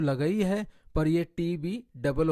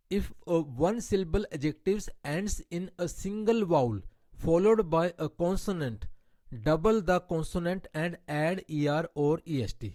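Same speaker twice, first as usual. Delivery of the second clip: slow, deliberate reading of an English grammar rule; much slower than usual. Shown as a demonstration. Teacher reading a grammar rule to her Hindi-speaking class, slow and deliberate. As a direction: spell out the rule word by word for students.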